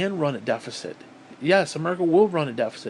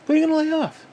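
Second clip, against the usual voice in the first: shouting; 11 semitones higher, 3 dB louder, faster than usual. Real, not acted. Ranting question to politicians.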